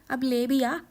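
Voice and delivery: mother-in-law shouting for the food; impatient call. Acted. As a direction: get her to bring the food now.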